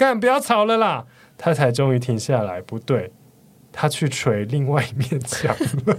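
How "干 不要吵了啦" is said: put-on very high, shrill, exasperated, fed-up shout. Retelling shouting at the wall when the speaker couldn't stand it, retelling a shout. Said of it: "对着那面墙大喊".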